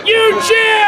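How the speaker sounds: high, bright cue to the crowd; excited call for cheers. Acted. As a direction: fire up the audience. Cueing audience cheering again.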